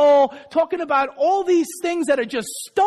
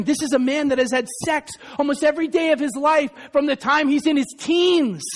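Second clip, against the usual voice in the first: ordinary delivery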